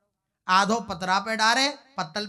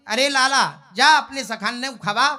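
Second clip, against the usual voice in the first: calling out; 2 semitones higher, 7 dB louder than usual. Acted. Mother calls her son.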